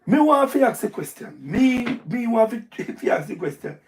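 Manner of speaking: breaking into laughter mid-question; giggling as the question falls apart; laughing through it. Real, not acted. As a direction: try to ask but laugh gets in. Laughs while repeating his question.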